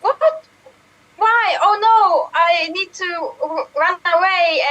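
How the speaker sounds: panicked. Acted. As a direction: panic like a cartoon hero. Hero panics in improv scene.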